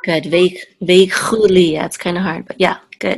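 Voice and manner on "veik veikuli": "veikuli" slow, with a throaty kh; model pronunciation. Shown as a demonstration. Teacher modelling a hard word for a student, model pronunciation. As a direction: draw out "veikuli" slowly for the learner.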